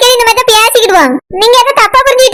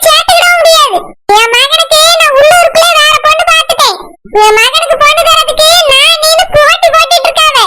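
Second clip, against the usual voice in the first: higher, haughty mother-in-law rant; scornful aunt; 4 semitones higher than usual. Acted. Aunt rejects the daughter-in-law. (உயர்ந்த குரலில் ஏளனமாகப் பேசும் மாமியார்)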